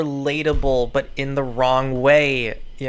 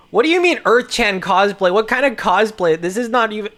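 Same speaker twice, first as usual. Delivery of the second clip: high character voice; 5 semitones higher, 6 dB louder than usual. Acted. Reading comic dialogue aloud, high-pitched.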